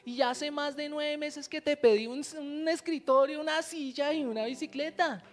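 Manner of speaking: imitated tearful plea. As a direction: plead upward, lightly acting out a tearful prayer. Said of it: "se puso a llorar y le dijo".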